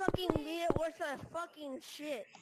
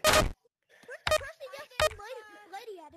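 mocking singsong; 4 semitones higher than usual. Mock singsong calling the monster.

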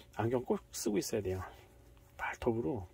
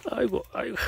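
loud groan; 10 semitones higher, 7 dB louder than usual. Real, not acted. Pet biting again.

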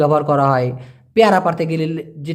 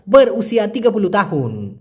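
very slow, word by word like a newsreader; slow news reading; much slower than usual. Shown as a demonstration. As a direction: spell it out slowly as if reading the news. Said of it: "খবর পড়ার সময় উসিয়া কথাটি বলা হয়".

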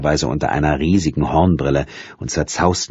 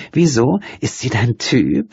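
breathy little laugh; 9 semitones higher than usual. A narrator's reading. Nina teasing Strike about another woman, breathy laugh. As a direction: toss it off with a breathy laugh, high and playful. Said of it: "mit einem kleinen, gehauchten Lachen".

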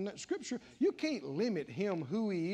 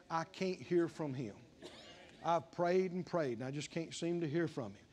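a hint of mopey complaint, lower and softer; mock whining doubter; 4 semitones lower, 4 dB quieter than usual. Preacher mocking a despairing believer, mopey. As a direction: whine it like a defeated believer. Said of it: "What a difference from saying".

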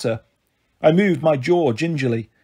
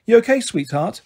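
gentle; 6 semitones higher than usual. A narrator's reading. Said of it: "gently pushing Steve to one side".

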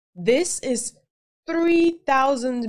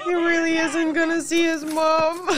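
pitying lament; 4 semitones higher than usual. Real, not acted. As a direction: lament it high for the doomed man. Pity for the doomed character.

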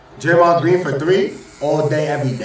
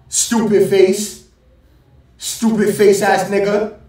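drawn-out mock insult; 2 semitones higher, slower than usual. Real, not acted. Mocking the player on screen.

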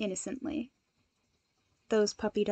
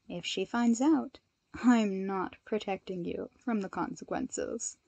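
warning; 2 semitones lower, 4 dB quieter than usual. Acted. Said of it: "Momo warned".

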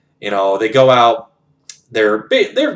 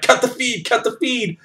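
mock panic; 13 semitones higher than usual. Officials scramble to stop the press broadcast, panicked. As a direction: imitate flustered officials, pitched way up.

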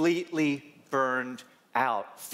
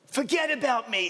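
put-on high old-lady voice; Flavie imitation; 7 semitones higher than usual. Patient brushing off her doctor's question, high old voice. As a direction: wave off concern as the old patient. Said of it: "It's my Flavie imitation".

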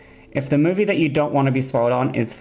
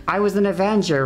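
higher, mildly pleading quote; dying man's claim; 5 semitones higher than usual. Retold or imitated. Dying MODOK claims he was an Avenger, mildly pleading. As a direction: lightly voice a dying man's insistence. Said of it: "And he's like".

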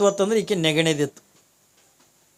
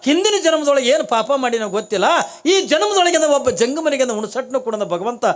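higher, louder pleading woman's voice; pleading Kalavve; 6 semitones higher, 3 dB louder than usual. Acted. Kalavve begs the holy man, raised pleading voice. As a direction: beg him not to make her strike. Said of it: "ಅವಾಗಿಂದ ಕಾಳವೇ ಅಂತಾಳೆ".

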